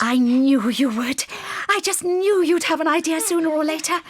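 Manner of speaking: excited. Acted. Mother fox thrilled at an idea.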